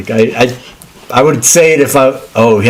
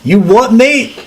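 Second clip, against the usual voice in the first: a cheeky "mate" in a put-on British accent, pitched up; mock British accent; 11 semitones higher, slower than usual. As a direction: throw out a jokey British accent. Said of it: "No, that's Australian".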